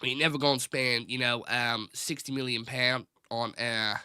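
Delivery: put-on a fading, half-held Southern American accent; terrible Southern accent. Joking about United's transfer budget, weak Southern American accent. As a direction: let the Southern American twang slip away. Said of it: "that's a terrible accent".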